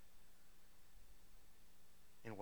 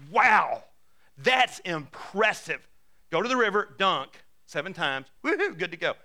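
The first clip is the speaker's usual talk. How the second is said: mock-impressed, much louder and slowed on the first words; sarcastic wow; 6 dB louder than usual. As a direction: sarcastically fake enthusiasm. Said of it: "how many of us are going".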